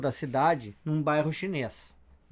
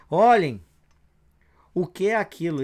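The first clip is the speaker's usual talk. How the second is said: sudden alarmed shout from the street; guard shouting; 6 dB louder than usual. A narrator's reading. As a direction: yell out to the others in alarm. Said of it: "alguém grita lá na rua". (grito de alerta do guarda)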